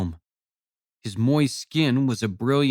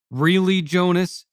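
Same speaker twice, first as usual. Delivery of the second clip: sharp, higher, loud rebuke; snapped; 7 semitones higher, 4 dB louder than usual. A narrator's reading. Wife scolds husband for swearing, sharp loud snap. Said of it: "Janae snapped".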